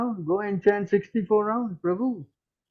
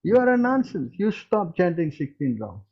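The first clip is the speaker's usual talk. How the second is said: scornful model reply. Shown as a demonstration. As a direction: show him how to say it back with scorn. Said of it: "you should speak like this".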